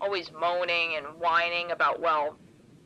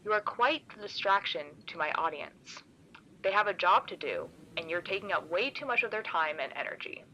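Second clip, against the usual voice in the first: forced calm; 3 dB quieter than usual. Acted. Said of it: "its voice is calm".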